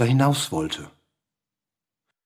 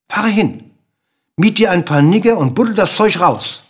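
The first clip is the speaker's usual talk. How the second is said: raised, urgent bird voice giving orders; hissing, pushy bird; 5 semitones higher, 4 dB louder than usual. A narrator's reading. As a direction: press the king insistently, pitched up. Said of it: "zischte nun mit einer fast schon unsympathischen, heiseren Stimme". (eindringlich zischender, aufdringlicher Vogel)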